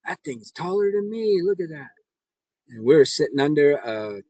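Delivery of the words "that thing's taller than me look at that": higher, put-on voice for the tall scoutmaster; imitating a friend in awe; scoutmaster's remark. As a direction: quote him in a lifted, different voice. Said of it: "but he goes".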